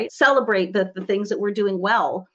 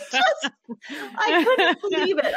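laughing; 9 semitones higher than usual. Real, not acted. Laughing at memory.

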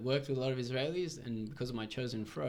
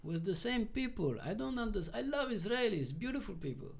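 imitating Bob; 9 semitones higher than usual. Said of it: "the way he was talking and expressing himself".

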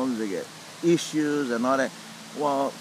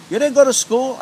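high, loud, startled disbelief; a client who can't believe there was no school; disbelieving question; 12 semitones higher, 9 dB louder than usual. Retold or imitated. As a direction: blurt it out in disbelief.

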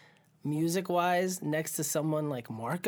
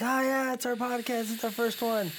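higher, excited retelling; hyped up; 7 semitones higher than usual. Retold or imitated. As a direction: bounce it like you're hyped. Hyped about their first podcast.

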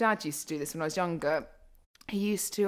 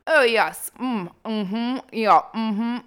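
higher, louder mock upper-class English; exaggerated posh accent; 4 semitones higher, 7 dB louder, much slower than usual. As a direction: ham up a plummy posh accent. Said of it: "How is my accent posh?".

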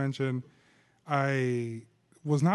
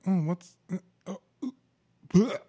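retching noise; 4 semitones higher, slower than usual. Retold or imitated. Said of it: "and then I was like".

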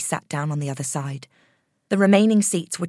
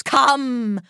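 calling out; 7 semitones higher, 3 dB louder than usual. Acted. Medium calling a spirit.

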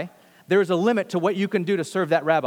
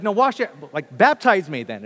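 louder Peter, pushing his teacher to do more; eager demand; 6 dB louder than usual. Retold or imitated. Peter to Jesus, wanting his whole body washed: eager, louder insistence. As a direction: insist a bit louder, all in. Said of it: "And Peter's like".

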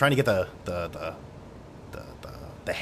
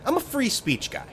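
smug. Shown as a demonstration. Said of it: "does that sound any more douchey".

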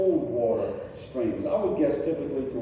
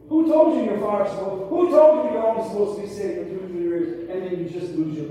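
louder and higher, building fire; fervent preaching; 5 semitones higher, 4 dB louder than usual. Acted. Preacher urging the congregation to keep their fire, fervent. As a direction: challenge them with rising heat.

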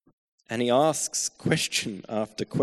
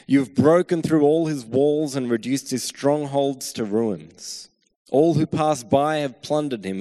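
loud, urgent reading of a lament psalm; impassioned scripture reading; 4 dB louder than usual. Acted. Preacher reading the psalm aloud to his congregation, impassioned. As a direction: proclaim the psalm's complaint with rising force. Reads psalm with mounting force.

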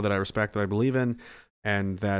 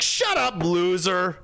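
dismissive retort; 4 semitones higher, much slower than usual. Retold or imitated. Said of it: "And you're like".

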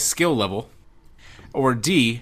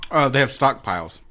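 chewing while talking; mouth full. Real, not acted. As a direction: talk through a mouthful. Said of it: "I'm eating chocolate".

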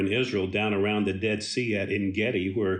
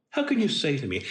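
half-laughing disbelief; 3 semitones higher, much faster than usual. Acted. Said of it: "David seems incredulous at what".

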